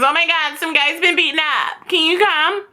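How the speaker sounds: lightly acted high-pitched caller; pretend emergency caller. Acts fake call to police.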